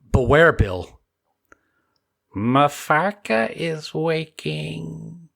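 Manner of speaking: slow, dark, doom-laden voice; ominous villain warning. Acted. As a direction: intone it like a prophecy of evil. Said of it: "Did you just say Mafarka?".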